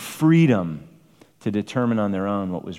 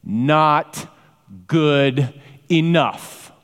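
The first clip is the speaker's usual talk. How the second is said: drawn-out, louder, raised retort; voicing sin; 4 semitones higher, 5 dB louder, much slower than usual. Preacher voicing sin's scornful reply to God. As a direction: spit out sin's dismissive verdict slowly. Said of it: "Sin is saying".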